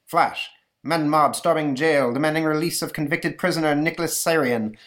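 punchy breaking-news read; radio newsflash reporter. Acted. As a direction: announce an urgent flash like an old radio reporter. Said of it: "over the car radio".

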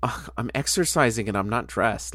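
breathless whispered excuse. Retold or imitated. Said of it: "And he's like".

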